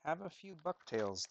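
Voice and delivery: loud mocking quote of advice. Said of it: "they said".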